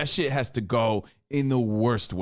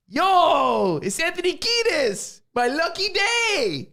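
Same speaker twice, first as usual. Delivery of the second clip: much higher, Lucky Charms style Irish lilt; mock Irish accent; 4 dB louder, much slower than usual. Imitating a singer in a mock Irish accent. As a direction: ham up a leprechaun Irish voice, slow on my lucky day. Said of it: "Lucky Charms impression".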